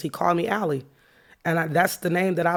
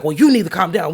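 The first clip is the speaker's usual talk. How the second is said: louder, lightly acted order; retold stern manager; 8 dB louder than usual. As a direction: imitate a manager firmly shutting someone down. Manager quoted in an argument.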